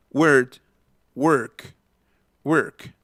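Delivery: word, work said singly as "werd", "werk"; ER instead of O. Shown as a demonstration. Teacher correcting the O spelling, pronunciation demo. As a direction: give word and work the closed vowel of bird. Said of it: "no van con O".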